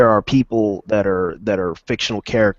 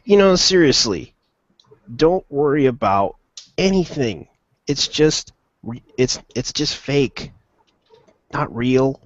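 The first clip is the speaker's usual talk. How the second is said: higher-pitched, slowed-down talking-to; mock reassurance; 5 semitones higher than usual. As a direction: imitate someone patiently explaining, pitched up. Acting out someone reassuring the reviewer.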